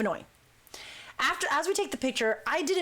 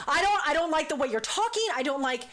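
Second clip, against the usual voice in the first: mock indignant complaint, pitched up; mildly raised voice, imitating an annoyed man; 3 semitones higher than usual. Guard snapping at the group leader, mildly raised voice. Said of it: "He starts raising his voice".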